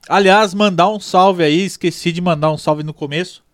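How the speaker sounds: talking through a mouthful of pizza; mouth full. Real, not acted. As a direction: speak around a bite of food. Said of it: "não pode falar de boca cheia". (falando de boca cheia)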